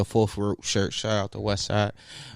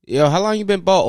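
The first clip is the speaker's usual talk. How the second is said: imitating friend; 9 semitones higher, 6 dB louder than usual. Quoting people asking.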